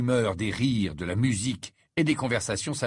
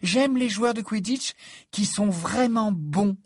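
smiling; 10 semitones higher, 3 dB louder, slower than usual. A narrator's reading. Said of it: "toujours souriante".

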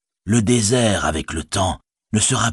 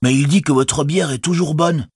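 hobbit Sam; 9 semitones higher than usual. Acted. Sam's voice.

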